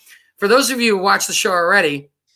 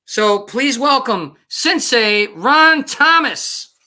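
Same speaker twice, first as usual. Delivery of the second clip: game show announcer; 5 semitones higher, much slower than usual. Acted. Host introducing the guest.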